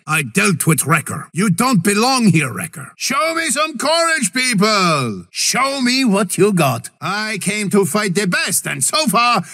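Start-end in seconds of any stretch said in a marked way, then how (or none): 3.0-6.9 high shouted challenge; high shouted taunt to the enemy. Acted. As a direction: call out the cowards.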